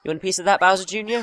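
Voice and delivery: high, taunting boss challenge; wild unhinged ranting. Acted. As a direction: crow over the beaten enemy.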